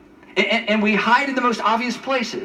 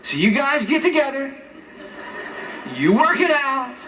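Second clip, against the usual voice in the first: higher, mock indignant rant with laughs; mock indignant Adam; 4 semitones higher than usual. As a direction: play a petulant Adam lecturing God. Mock Adam scolding God.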